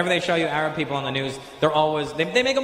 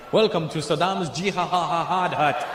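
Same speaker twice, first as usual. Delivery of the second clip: mock club greeter; much slower than usual. Mock Iraqi comedy club greeting.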